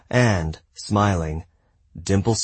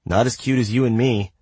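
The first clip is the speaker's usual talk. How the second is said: smiling voice; 5 semitones higher than usual. Acted. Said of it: "There was a smile in her voice".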